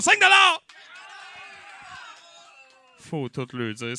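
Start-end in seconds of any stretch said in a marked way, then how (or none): 0.0-0.6 auctioneer yell. Acted. Mock auction, urging bidders.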